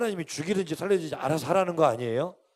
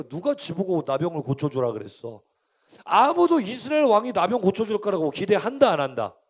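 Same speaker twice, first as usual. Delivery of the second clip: ordinary delivery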